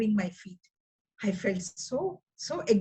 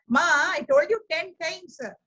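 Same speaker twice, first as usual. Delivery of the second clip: exasperated son; 5 semitones higher than usual. Retold or imitated. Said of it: "I would call him".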